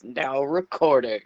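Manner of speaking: loud faux American robot voice. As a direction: announce it like a booming bot. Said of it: "Massively loud robot voice screams".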